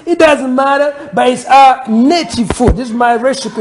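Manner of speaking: playful American accent, lightly put on; a hint of an American soul-food host. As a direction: slip into a laid-back American accent. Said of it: "I can always talk with my American accent".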